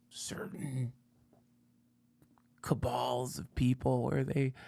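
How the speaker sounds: whispered like a secret; conspiratorial whisper. Acted. Host whispering to viewers about secret cabals.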